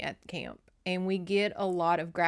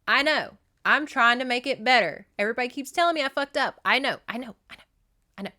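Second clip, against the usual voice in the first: higher, louder exasperated protest; retold flustered insistence, voice pitched up; exasperated self-defence; 4 semitones higher, 6 dB louder, faster than usual. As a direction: protest as if fed up with being told off. Acting Jenny's exasperated defence.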